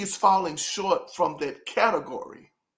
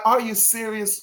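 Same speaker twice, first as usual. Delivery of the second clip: higher, brighter "Are you serious?" with a teasing lift; playful teasing disbelief; 5 semitones higher than usual. Shown as a demonstration. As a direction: lift "Are you serious?" up as a friendly jab, he's playing around. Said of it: "It's like".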